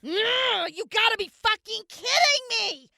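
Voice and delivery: high-pitched disbelieving protest; exasperated outburst. Acted. Accused of being a raider, high exasperated protest. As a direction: throw it back in disbelief.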